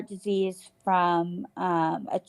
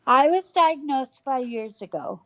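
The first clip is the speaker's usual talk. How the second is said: toothless; 4 semitones higher than usual. Real, not acted. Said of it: "Sorry, I don't have my teeth in".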